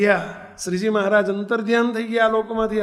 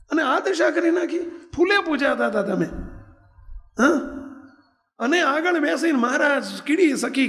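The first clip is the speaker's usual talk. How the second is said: much higher, dismayed exclamations; shocked lament; 4 semitones higher than usual. Retold or imitated. Saint grieves over the fallen devotee, a high dismayed lament. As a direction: cry out in disbelief at his ruin.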